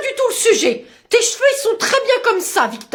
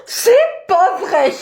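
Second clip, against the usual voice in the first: shocked gasp; much slower than usual. Acted. Mother shocked, repeats.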